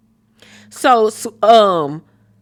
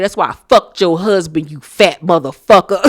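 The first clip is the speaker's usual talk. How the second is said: mock telling off; 4 dB louder than usual. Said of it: "I'd tell Toya".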